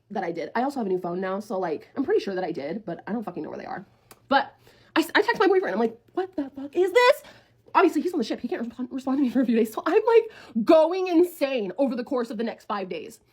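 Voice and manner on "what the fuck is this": slow, high word-by-word confrontation; angry demand. Retold or imitated. Texting the boyfriend about the video, angry demand. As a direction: spell out each word, pitched up.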